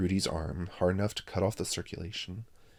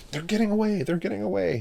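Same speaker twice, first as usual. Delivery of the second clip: high, loud howling alarm; 13 semitones higher, 7 dB louder than usual. A narrator's reading. Chip howls as the boys escape. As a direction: howl it out in alarm. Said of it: "howled Chip".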